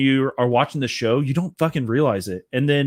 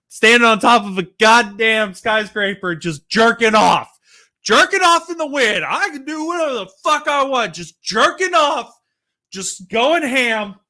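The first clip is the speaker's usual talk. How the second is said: mock Homelander; 8 semitones higher than usual. Acting out Homelander on skyscraper.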